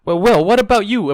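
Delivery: high, loud defensive cry; cried out. A narrator's reading. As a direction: fling it back at her accuser. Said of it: "Ebony cried".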